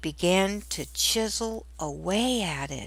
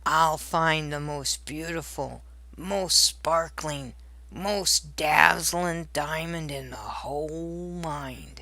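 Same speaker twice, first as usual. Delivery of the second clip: a hint of a boastful grumpy dwarf; lightly voiced proud dwarf; 3 semitones lower than usual. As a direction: puff up and promise, mildly. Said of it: "Grumpy puffed up his chest".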